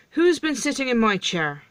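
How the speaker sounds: mildly outraged storybook dwarf; indignant dwarf. Acted. Dwarfs indignantly question, one by one.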